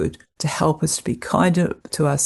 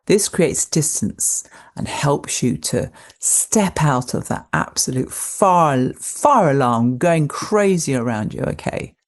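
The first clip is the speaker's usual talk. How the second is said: ordinary delivery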